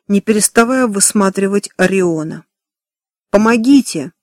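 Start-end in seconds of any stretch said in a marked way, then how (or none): none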